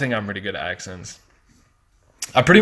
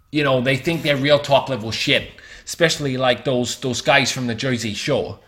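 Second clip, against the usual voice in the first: mock Jersey accent; 3 semitones higher than usual. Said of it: "They talk like this".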